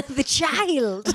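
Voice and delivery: put-on a Hocus Pocus witch relishing a child. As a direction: savour the word child like a hungry witch. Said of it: "witches from Hocus Pocus".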